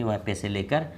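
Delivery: ordinary talk, nothing marked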